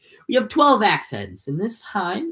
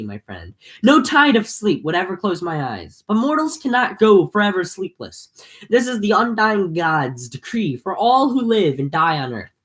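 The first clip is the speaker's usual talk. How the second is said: measured epic read-aloud; story narration. A narrator's reading. Reading the Odyssey aloud to viewers, steady narration.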